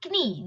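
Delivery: "knee" with the k voiced before the n; wrong "knee", k pronounced; K sounded. Shown as a demonstration. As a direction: say "knee" as k-nee. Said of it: "Okay, not".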